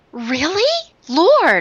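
gasping, astonished, high-pitched surprised tone. Retelling a reply to God after gasping: imitating a surprised gasp. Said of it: "I actually just gasped like that".

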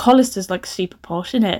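ordinary talk, nothing marked

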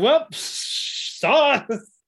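very high-pitched, smug, put-on voice.

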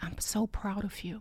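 soft, slow unvoiced whisper. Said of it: "as he's whispering to me".

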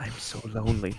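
imitated sensual whisper. Retelling what a date said into his ear: imitating a sensual whisper. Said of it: "She's like".

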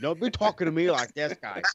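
fake high Massachusetts accent. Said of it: "you can fucking tell that fucking accent".

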